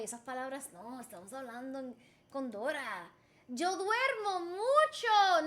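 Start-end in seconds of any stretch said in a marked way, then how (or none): 3.5-5.5 slow, drawn-out model sentence; slow lesson demo. Shown as a demonstration. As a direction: teach it slowly. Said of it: "make a sentence".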